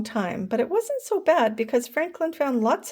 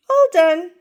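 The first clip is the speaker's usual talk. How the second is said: proud; 9 semitones higher, 10 dB louder than usual. A narrator's reading. Franklin declares room tidy.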